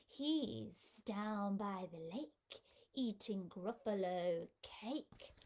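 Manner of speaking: slow, sly snake voice; slithery snake voice. Acted. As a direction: slide the words out like a snake. Snake answers the child.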